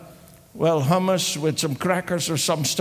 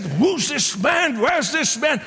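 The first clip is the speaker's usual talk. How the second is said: upset demand; 5 semitones higher than usual. Retold or imitated. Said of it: "Haman got all upset".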